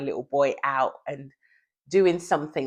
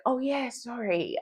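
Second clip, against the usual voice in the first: husband sheepish; 8 semitones higher than usual. Retold or imitated. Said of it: "And he's like".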